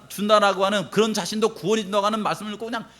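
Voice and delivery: ordinary delivery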